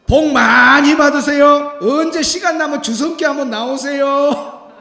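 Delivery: a very loud, slow cheerful shout; loud call. Retold or imitated. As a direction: bless her at the top of your voice. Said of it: "큰 소리로".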